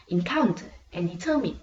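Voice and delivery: "encounter and determine" with COUN and TER strong; second-syllable stress. Shown as a demonstration. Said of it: "stress will be placed on the second one".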